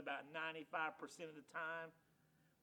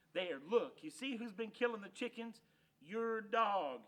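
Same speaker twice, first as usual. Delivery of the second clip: loud, accusing owner's voice; 6 semitones higher, 6 dB louder than usual. Acted. Loper's wife accusing Hank of killing chickens, indignant. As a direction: point out the guilty dog.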